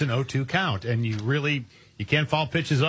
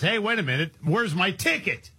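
slightly hammed-up dawning realization, pitched up; mock alarm; 4 semitones higher than usual. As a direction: play a customer suddenly missing something. Voices customer discovering missing ticket.

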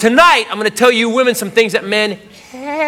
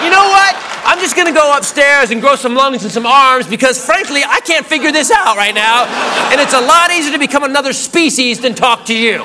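lightly acted fed-up amphibian, voice raised in pitch; mock exasperation; 4 semitones higher than usual. Amphibian giving up on talking to his mate, mock exasperation. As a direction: announce you've had enough, mock-frustrated.

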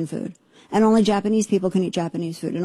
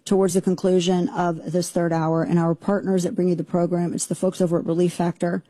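ad read. Acted. Host reads sponsor ad.

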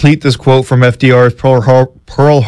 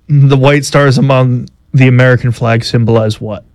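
flat quiz-host read; monotone. Real, not acted. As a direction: read it with no enthusiasm. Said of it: "he just very monotone".

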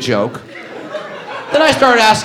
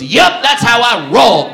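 slow, louder, cocky drawl; cocky wheelchair guy; 6 semitones higher, 4 dB louder, slower than usual. Retold or imitated. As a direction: deliver it smug and easy. Wheelchair guy's cocky reply.

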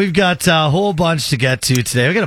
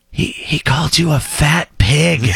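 quoting the cashier while laughing; giggling retelling of the insult; laughing through the quote. Retold or imitated. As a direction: break into laughs on the punchline. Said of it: "she leans out the window and she goes".

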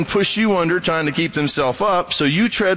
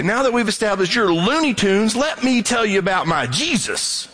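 sarcastic preacher; 5 semitones higher than usual. Retold or imitated. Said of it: "And then you say".

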